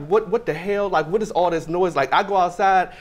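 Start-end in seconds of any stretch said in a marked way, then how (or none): 0.1-2.0 a startled shout of disbelief; what the hell. Retold or imitated. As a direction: react to the sudden noise. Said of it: "I'm like".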